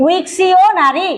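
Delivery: ୱିକ୍ସିଓନାରୀ spelled out syllable by syllable, slowly; ୱିକ୍ସିଓନାରୀ said slowly, teacher modelling the word; slow careful naming. Shown as a demonstration. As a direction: draw out ୱିକ୍ସିଓନାରୀ so students catch each part. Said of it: "ତାକୁ କ'ଣ କହିବା?".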